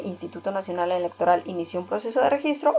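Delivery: quick read-through of the full name; reading "Instituto Nacional Electoral" out in full, quickly; reading the acronym out. Shown as a demonstration. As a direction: rattle off the full name fast. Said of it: "Igual podemos leerlo".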